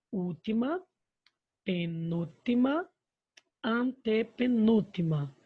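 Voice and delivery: spaced out term by term with pauses; teaching recap. Shown as a demonstration. Teacher recapping the three syllable positions for pupils, spaced out. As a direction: list each term slowly and separately. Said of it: "Então, olha só".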